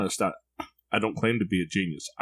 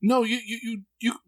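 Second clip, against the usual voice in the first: imitating his son; 14 semitones higher than usual. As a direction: show dad the frown, as the boy. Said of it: "And he says".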